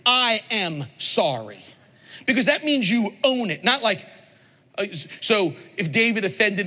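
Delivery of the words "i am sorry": sincere apology. Shown as a demonstration. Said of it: "we have to say is".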